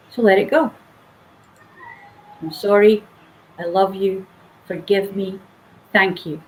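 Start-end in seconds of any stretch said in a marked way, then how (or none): 2.4-6.4 soft prayer. Shown as a demonstration. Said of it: "a very simple prayer".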